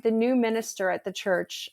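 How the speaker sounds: ordinary talk, nothing marked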